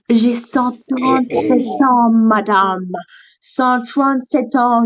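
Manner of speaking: slow, insistent declaration of age; indignant old turtle. Pretend. (vieille tortue indignée, lente et insistante)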